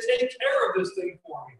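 high, hammed-up impression of a harried wife; mock wife voice. Wife handing over baby to tired husband, high mock voice. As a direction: squeak it out like a frazzled wife. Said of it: "that says".

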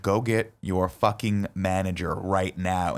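slow firm demand. Retold or imitated. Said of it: "And I'm like".

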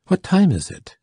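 sharp, high startled question; alarmed cry. Acted. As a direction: ask it in sudden alarm. Duke woken by firing.

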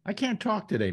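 talking through swollen, puffy lips. Real, not acted. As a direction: speak as if your lips are puffed up. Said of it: "My lips feel swollen today".

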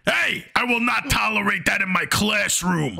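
teacher yelling at the mocking kid; angry scold. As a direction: shut down the laughing at once.

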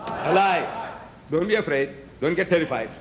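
usual speaking voice

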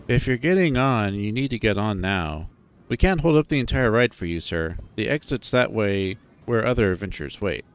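understated, impatient staff announcement; lightly irritated, bored teenage ride operator; mildly annoyed attendant. Acted. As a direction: recite the rules with a touch of annoyance. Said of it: "goes from looking bored to mildly annoyed".

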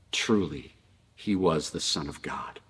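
low, soft, solemn realisation; hushed awe. Retold or imitated. Centurion to those around him, hushed and solemn.

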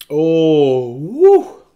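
high yelp at the sourness; eating sour candy. Real, not acted. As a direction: squeal from a sour bite.

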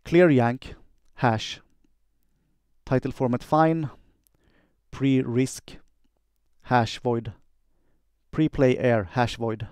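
slow, deliberate spoken computer commands. Shown as a demonstration. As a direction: say each command crisply for the machine. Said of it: "quick demo of how I do dictation".

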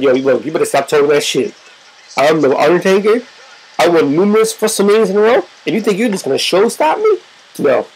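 lightly voiced low, menacing Undertaker; low-pitched warning from an annoyed champion; pissed-off wrestler. Acting pissed-off wrestler's threat.

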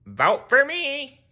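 high, slow cartoon plea; Squidward plea. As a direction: beg for votes. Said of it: "said Squidward".

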